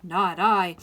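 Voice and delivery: very loud, emphatic refusal; storybook pig. A narrator's reading. Pig refusing to help the hen, very loud. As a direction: blurt it out as a pig. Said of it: "said the pig".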